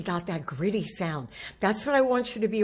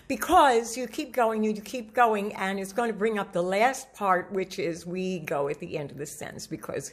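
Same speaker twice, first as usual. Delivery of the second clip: running out of breath. Shown as a demonstration. Coach showing what people do without a breath, running out of air. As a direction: keep going without breathing until it drops. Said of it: "I'm gonna do what a lot of people do".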